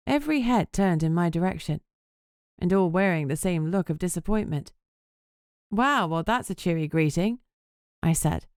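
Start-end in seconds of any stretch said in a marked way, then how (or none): 5.7-7.4 sarcastic. Acted. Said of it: "my voice dripping with sarcasm".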